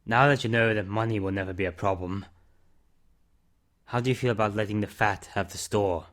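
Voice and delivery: a hint of a weary man owning up to his past; subdued confession; Mister Summers. Narrator voices Mister Summers.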